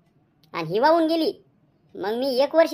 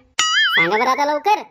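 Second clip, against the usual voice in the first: demanding; 3 semitones higher, 4 dB louder, slower than usual. Acted. Wife demands answer from husband.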